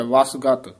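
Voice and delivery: ਵਸਗਤ with ਵਸ tight and ਗਤ light; ਵਸਗਤ as one word, firm first half; tight then soft syllable. Shown as a demonstration. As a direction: press ਵਸ, release ਗਤ. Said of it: "ਵਸ ਕਸ ਕੇ ਬੋਲਣਾ".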